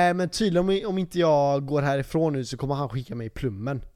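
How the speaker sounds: mildly irritated, cocky retelling; a bit snotty. Retold or imitated. Drunk guy telling his friend about the threat, mildly snotty. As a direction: imitate your tipsy self being slightly snide. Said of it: "lite så här, eh, drygt".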